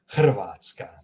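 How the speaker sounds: "Hrvatska" with throaty h and rolled r; Croatian pronunciation. Shown as a demonstration. Teacher says the country's name, "Hrvatska" with rolled r. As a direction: say "Hrvatska" as h-rr-VAHT-skah. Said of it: "Just like that".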